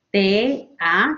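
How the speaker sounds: "T, A" as two detached beats; separated syllables. Shown as a demonstration. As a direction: split "T" from "A", dropping on A.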